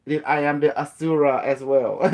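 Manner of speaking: mock guru. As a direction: proclaim it like a parody sage. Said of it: "they always talk like that".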